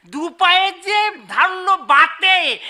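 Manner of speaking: husband reading the elegy aloud; reading a poem. Acted. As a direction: recite each line with a steady rhythm. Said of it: "আমি পড়ছি".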